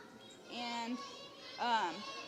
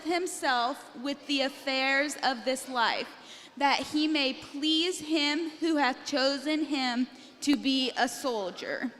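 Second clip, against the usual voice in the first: marching recital; slower than usual. Shown as a demonstration. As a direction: recite it in measured, punchy beats. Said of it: "We need your best marching".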